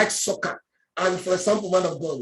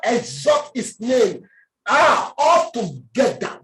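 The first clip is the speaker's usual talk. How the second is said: fervent call; slower than usual. Real, not acted. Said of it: "calling congregation to exalt".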